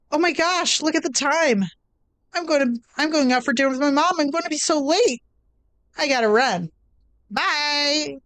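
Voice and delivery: a high-voiced girl realising she is late and dashing off; high, flustered schoolgirl in a hurry; flustered Sayori voice.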